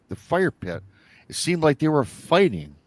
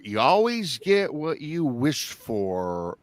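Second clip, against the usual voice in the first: slow, drawn-out imitated eerie voice; hollow echoing voice; 2 semitones higher, slower than usual. Demonic entity's words echo through the forest, hollow. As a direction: stretch it out like a distant echo. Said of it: "hear echoing through a hollow echo".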